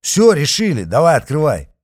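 loud, high rude order; pushy command; bossy demand. A narrator's reading. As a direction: bark the order to open. Patriot ordering to open.

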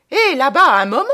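high, loud call to halt them; urgent shout. Acted. Traveller calling to the funeral crowd, urgent shout. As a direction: holler across the platform.

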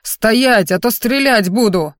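loud warning shout. Acted. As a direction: yell it after them. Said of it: "кричат вслед".

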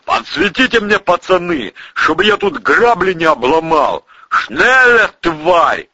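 brash shouted commands; bossy shout. Acted. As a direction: call up and bully along. Calls to guards, orders prisoner on.

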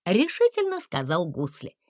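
ordinary delivery, nothing marked

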